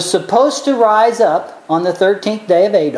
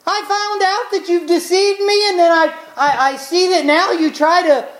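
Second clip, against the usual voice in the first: high, outraged king, much higher; furious king; 10 semitones higher than usual. Retold or imitated. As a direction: shock and rage of a betrayed king, pitched high. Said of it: "And he's like".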